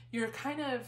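breathless, pregnant and winded; out of breath. Real, not acted. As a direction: talk while out of breath. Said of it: "kind of out of breath".

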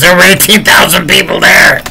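high-pitched, exasperated protest; incredulous retelling. Retold or imitated. Retelling the interviewee's answer about unreleased footage, incredulous. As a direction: throw it out as an obvious objection. Acted retort, repeated quote.

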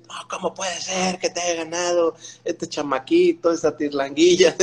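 mock disbelief at the kid; mocking teammates. Compañeros se burlan. (burla imitada de los compañeros)

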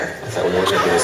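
mock bickering. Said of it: "we do this thing, uh, the Bickersons".

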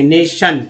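नेशन in two careful parts, ending shun; नेशन split as ne-shun; pronunciation demo. Shown as a demonstration. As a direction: say नेशन with sh, falling. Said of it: "सन नहीं पढ़ेंगे".

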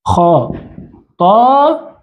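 word split slowly into long, separate syllables; drawn-out syllables. Shown as a demonstration. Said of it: "سنقول هكذا". (نطق مقطّع ممدود)

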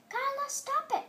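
high, loud and pleading; frustrated shout at a partner; yelled. A narrator's reading. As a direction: yell to make her stop. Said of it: "I yelled".

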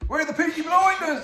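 loud, high Cockney gangster shout; Cockney accent. Retold or imitated. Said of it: "Oh, that's Cockney, isn't it?".

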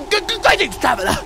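high-pitched mock greeting from an odd traveler's guide; mocking character imitation. Player mimicking the game character's greeting, mocking imitation. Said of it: "why he talks like that and then giggles like that".

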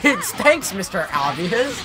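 dry sarcastic thanks. Real, not acted. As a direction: roll your eyes at the obvious. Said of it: "That was sarcasm".

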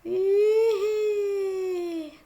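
high little giggle; high amused hee-hee; giggling. Real, not acted. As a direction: laugh at the mess. Giggle after crash.

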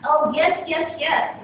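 eager quick yeses; a touch of excitement; excited. Acted. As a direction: jump at the offer. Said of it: "the three said excitedly".

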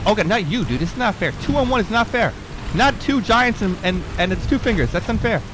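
high, whiny protest; outraged it's not fair; indignant complaint. Real, not acted. Two giants gang up.

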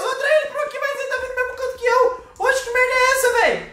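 high-pitched frantic complaining; panicking gamer. Real, not acted. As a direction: voice up high in real alarm. Monster coming to his corner.

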